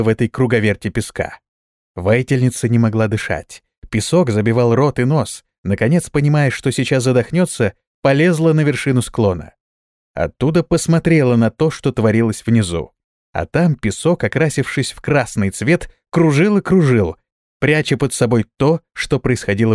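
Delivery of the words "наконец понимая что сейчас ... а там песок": ordinary delivery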